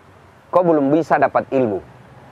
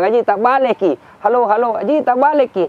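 mock calling out; 9 semitones higher than usual. Acted correcting of yelling villager.

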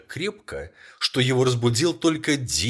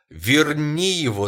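higher and louder, slow desperate scream; 7 semitones higher, 8 dB louder, slower than usual. A narrator's reading. Old woman screams at her husband to bring their son back. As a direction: scream it, dragging him to the door. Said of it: "закричала старуха".

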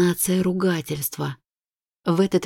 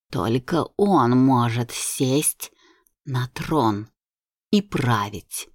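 low menacing ghost voice; 5 semitones lower than usual. Acted. Ghost queen's threat.

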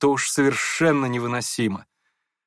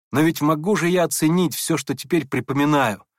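plain reading voice

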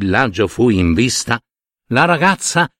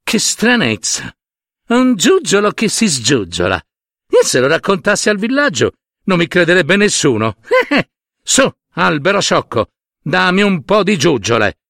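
mocking girl; 5 semitones higher than usual. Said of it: "e Kumba con la madre disse".

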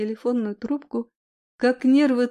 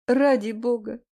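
crying on the phone; 3 semitones higher than usual. Acted. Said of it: "В трубке были слышны всхлипывания".

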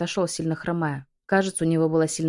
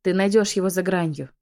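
urgent begging, a little louder; fervent imploring plea; pleading; 3 dB louder than usual. Acted. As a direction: beg the dragon to bring him back. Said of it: "взмолилась я".

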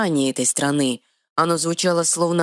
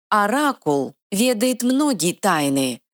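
high, slow, secretive fairy voice; mysterious squeak; 7 semitones higher than usual. Acted. Fairy hinting about the oracle, slow and mysterious. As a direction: squeak it out like a riddle. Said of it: "загадочно пропищала крылатая".

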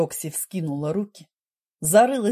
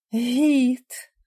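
breathed out; 5 semitones higher than usual. A narrator's reading. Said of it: "выдохнула Рокси".

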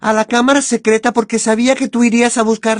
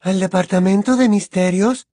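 a hint of surprise; 3 semitones lower than usual. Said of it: "preguntó Luna con un dejo de sorpresa".

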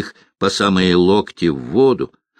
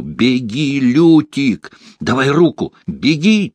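urgent shout; 5 semitones higher than usual. Acted. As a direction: yell to get him running. Geralt calls out in fight.

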